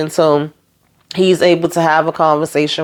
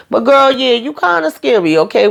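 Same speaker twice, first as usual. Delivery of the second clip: teasing call-out; 5 semitones higher than usual. Real, not acted. Host teases Fatima after agreeing.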